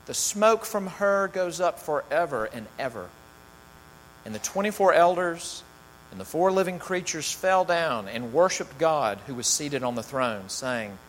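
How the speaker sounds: measured, dramatic Bible reading; scripture reading. Acted. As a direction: read the passage to the congregation with weight. Reads scripture aloud to congregation.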